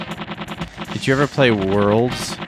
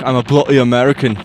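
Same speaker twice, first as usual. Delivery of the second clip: mock Scottish accent; 3 semitones higher, 7 dB louder, faster than usual. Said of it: "pretty racist of me to, uh, be like".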